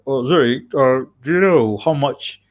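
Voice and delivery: light Liverpool accent imitation; a hint of a Scouse ex-boss. British ex-boss asking over coffee, mild Liverpool accent. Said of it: "he has a Liverpool accent".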